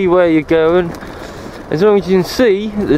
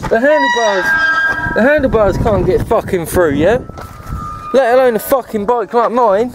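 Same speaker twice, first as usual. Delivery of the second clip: higher-pitched indignant rant with jabbing yeah?; exasperated rant; 4 semitones higher than usual. Real, not acted. Cyclist scolds Sustrans over the locked gates, higher-pitched and indignant. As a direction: vent at the route planners, challenging them.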